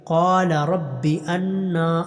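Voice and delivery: slow drawn-out tajweed chant; slow tarteel recitation; Quran recitation. Shown as a demonstration. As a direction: recite each vowel long and measured. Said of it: "انا نون کو لمبا کرنا".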